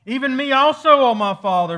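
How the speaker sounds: high, loud pleading, lightly acted; retold bitter cry. Esau begging his father for a blessing, mock bitter cry. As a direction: call out an imitated anguished plea. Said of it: "cried out with exceedingly great and bitter cry".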